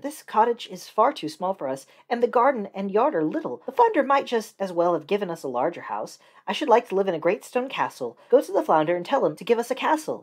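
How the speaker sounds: a pushy wife pressing her husband; wife's voice. Acted. Wife demands castle.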